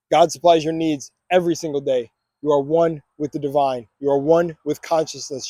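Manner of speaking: steady, deliberate affirmations; affirmation reading. Acted. Vlogger leading viewers through affirmations, steady and declarative. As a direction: declare each one with calm conviction.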